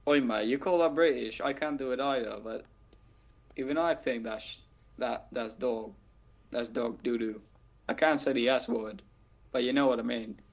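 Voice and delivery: lightly put-on British accent; amateur mock-British accent; bad British accent. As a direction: badly imitate a British accent. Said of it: "a very bad impression".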